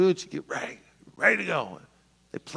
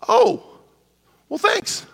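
sarcastic thanks; slower than usual. Retold or imitated. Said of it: "And they're like".

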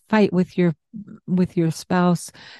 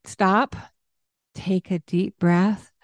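calm stop; slower than usual. Shown as a demonstration. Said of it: "and then it's like".

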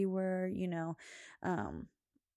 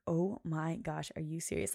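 irritated disbelief. Retold or imitated. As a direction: draw it out in mild disbelief. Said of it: "fueled my fire even more".

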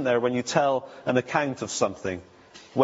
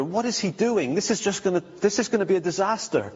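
higher, mildly bewildered mock worry; mildly alarmed disciples; 4 semitones higher than usual. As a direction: lightly act out followers fretting in confusion. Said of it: "confused, amazed, afraid, uh, in wonder".

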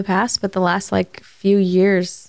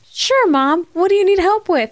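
put-on playful child role; 11 semitones higher, 4 dB louder than usual. Playing the child in son's game.

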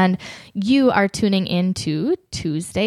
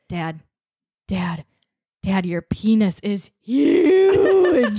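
put-on child voice; slower than usual. Son announces discovery to dad.

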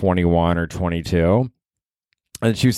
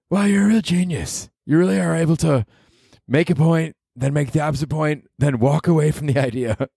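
higher, mock-praising sneer at himself; sarcastic self-mockery; 6 semitones higher than usual. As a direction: tease himself for arguing both sides.

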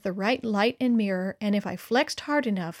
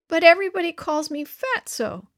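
put-on high, tearful little boy; a touch of sniffling as a hurt kid; 7 semitones higher, 4 dB louder than usual. A narrator's reading. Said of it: "Hank sniffled".

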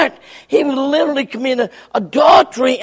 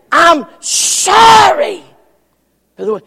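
hard apology; 4 semitones higher, 4 dB louder than usual. Acted. Man's apology acted.

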